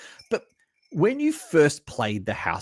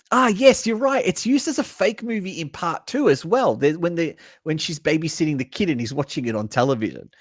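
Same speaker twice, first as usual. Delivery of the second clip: imitating a know-it-all; 5 semitones higher than usual. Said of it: "if someone comes to you and says".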